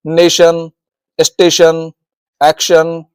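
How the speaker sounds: नेशन, स्टेशन, एक्शन each ending in "shun"; TION said as शन. Shown as a demonstration. Teacher giving TION examples, clear शन ending in नेशन, स्टेशन, एक्शन. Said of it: "इसको बोला जाता है शन".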